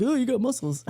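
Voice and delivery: mock admirer. Mimicking admirers.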